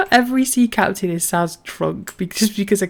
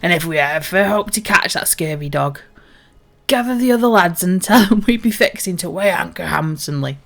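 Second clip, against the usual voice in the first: hearty salty sea captain, a touch louder; pirate captain; 4 dB louder than usual. Acted. Captain tells the crew a bawdy tale, hearty pirate voice. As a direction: boom it out like an old sea dog.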